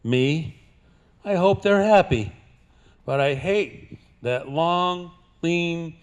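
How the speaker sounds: punchline delivered slow; cowboy twang. Acted. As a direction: build up, then drop the punchline. Poem punchline.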